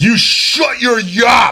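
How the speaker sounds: shrill, very loud, very high-pitched bellow. Game master voicing someone on the other side of a door, loud voice behind a door. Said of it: "you hear a loud voice on the other side of the door".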